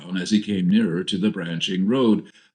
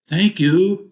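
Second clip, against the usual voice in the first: bright lift, higher and louder, with a smile; smiling; 10 semitones higher, 6 dB louder than usual. A narrator's reading. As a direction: say it through a smile, pitched well up. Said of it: "said Betty with a smile".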